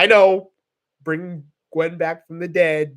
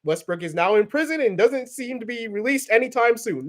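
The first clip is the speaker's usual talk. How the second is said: mock news report; 4 semitones higher than usual. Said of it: "he was gonna say".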